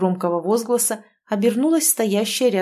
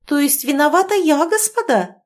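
higher, louder indignant challenge; outraged at the accusation; offended lady's retort; 8 semitones higher, 4 dB louder than usual. A narrator's reading. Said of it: "возмутилась Ольга".

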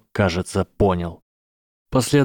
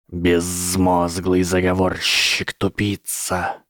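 angry serpent hiss; 2 semitones lower, slower than usual. Acted. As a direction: hiss the insults slowly, seething. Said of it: "Змея шипела так сердито".

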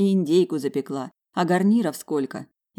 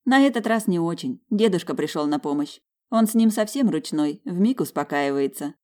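enthusiastic. Acted. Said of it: "воодушевлённо делилась она".

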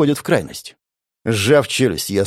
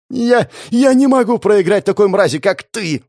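high, loud, stammering snarl; raging, half-hysterical snarl; growled in rage; 9 semitones higher, 4 dB louder than usual. Acted. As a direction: choke out the hatred. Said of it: "прорычала она".

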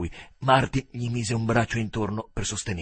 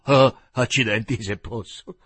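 excited exclamation; 9 dB louder than usual. A narrator's reading. Joe exclaims at his new idea.

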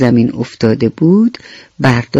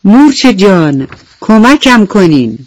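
calling for help; 5 semitones higher, 3 dB louder than usual. Acted. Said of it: "دوباره صدا زد".

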